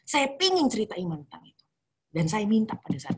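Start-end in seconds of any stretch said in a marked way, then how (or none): 0.1-1.6 higher, louder pleading; vowing all she owns to God, fervent; fervent plea. Retold or imitated. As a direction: beg with everything. Desperate vow to God.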